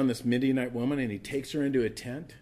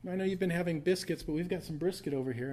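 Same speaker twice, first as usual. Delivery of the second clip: tempting ladies; 6 semitones higher, 3 dB quieter than usual. Acted. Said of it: "these ladies come up and they're like".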